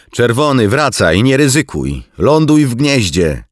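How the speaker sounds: high, loud, whiny radio plea; tearful pleading order. A narrator's reading. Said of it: "brzmiał bardziej płaczliwie niż groźnie". (płaczliwy, wysoki i głośny rozkaz)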